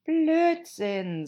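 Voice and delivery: high, firm, loud retort; loud and decisive. Acted. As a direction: cut her off loudly and firmly. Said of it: "sehr laut und entschieden".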